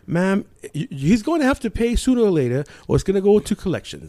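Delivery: sternly official mock British caller; put-on British collections-agent voice; British accent. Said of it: "I did it like a British accent".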